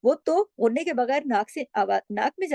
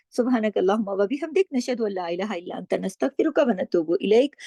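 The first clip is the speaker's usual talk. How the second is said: quick closing prayer. Acted.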